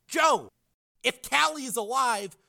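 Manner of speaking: high, careful pleading; earnest appeal. A narrator's reading. Frank reasoning with his brother, earnest appeal. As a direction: coax him gently toward reason.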